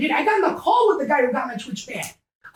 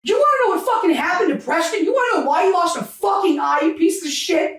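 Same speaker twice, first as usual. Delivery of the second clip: real angry, rapid-fire challenge; really emotional; 3 semitones higher than usual. Real, not acted. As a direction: throw the question at the accuser, heated. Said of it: "I'm getting really fucking emotional".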